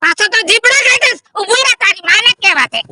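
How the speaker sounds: loud scolding threat; angry threat. Acted. Father threatening his cheeky son. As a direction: threaten him loudly.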